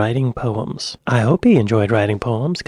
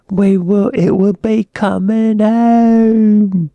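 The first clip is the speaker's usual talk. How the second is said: loud, drawn-out mock British accent, climbing higher; bad British accent; 7 semitones higher, 5 dB louder, much slower than usual. Reactor mimics commentators blaming the manager, bad British accent. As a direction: put on a hammy British commentator, stretching the vowels. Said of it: "with my bad British accent".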